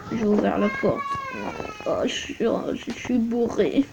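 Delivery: tag. Pretend. Playing a drunk leaving club.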